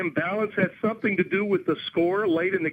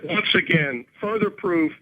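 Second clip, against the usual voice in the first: slow, withering put-down; dismissive; 4 semitones lower, slower than usual. Real, not acted. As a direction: spell it out with contempt. Host dismissive of caller.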